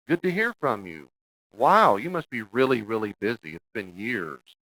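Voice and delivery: high, loud, slow mock welcome; a pointed guilt trip dressed as warmth; sarcastic greeting. Shown as a demonstration. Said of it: "Any mom said it before?".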